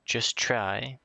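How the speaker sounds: questioning rise in an ordinary pitch; doubtful echo. Acted. Oliver answers imaginary friend's urging, doubtful question. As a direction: echo it back as an unsure question.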